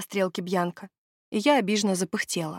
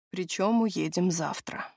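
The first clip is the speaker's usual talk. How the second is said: gloomy; 3 dB quieter, slower than usual. Acted. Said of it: "мрачно заметил Тревор".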